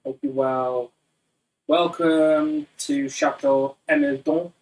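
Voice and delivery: slow, hammed-up French accent; mock French host welcome, laid on thick; terrible French accent. Host welcoming viewers to the living room, in a bad French accent. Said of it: "Terrible French accent".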